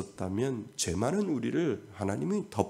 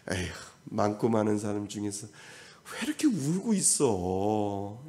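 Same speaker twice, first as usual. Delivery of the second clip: pitying sigh. Acted. God voiced sighing over the crying.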